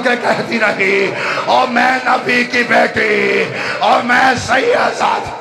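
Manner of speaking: fervent grieving preacher's climax; mourning sermon at full force. Acted. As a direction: cry it out to the mourners, rising and shouting. Zakir's majlis at full force.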